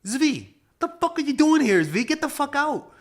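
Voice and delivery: high, loud mock outrage; retold angry yell. Yelling at the landlord who walked in, high angry outburst. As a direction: throw him out of your apartment, pitched high and loud.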